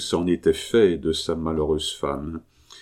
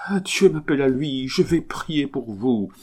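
higher, rapt voice, slowing into prayer; religious ecstasy; 7 semitones higher than usual. Acted. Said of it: "en proie à une sorte d'extase". (extase religieuse, voix plus aiguë et lente)

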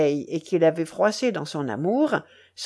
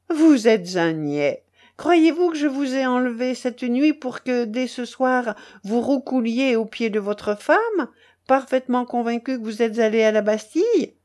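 lightly voiced haughty duchess, lifted and scornful; a hint of a grand lady's disdain; mocking imperious duchess; 2 semitones higher than usual. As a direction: scold the baron like a mistress in command.

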